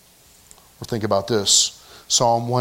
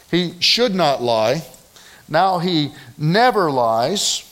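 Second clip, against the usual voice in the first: slow, weighty progression from should to never; building emphasis; slower than usual. Shown as a demonstration. Preacher stressing the progression to his congregation, slow and weighty. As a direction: lean harder on each step. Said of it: "we're in the process of a progression here".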